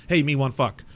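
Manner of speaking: loud, blunt caveman grunt of a line; mock caveman come-on. A creep messaging a stranger, mock caveman come-on. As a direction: bark it like a lusty caveman.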